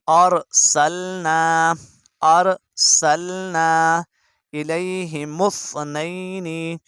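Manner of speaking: slow, drawn-out tilawat; measured Quran reading; Quran recitation. Shown as a demonstration. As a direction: recite it slowly and clearly for students. Reciting Surah Yasin.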